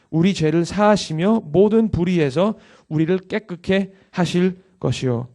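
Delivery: emphatic preaching. Real, not acted. Preacher urging congregation to confess sins with scripture, emphatic preaching.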